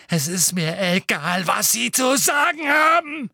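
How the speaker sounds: from stammered whisper to high loud shout; stuttering rage breaking into a bellow; bellowing, building. Acted. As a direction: start choked, explode at the end. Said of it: "brüllte Harry".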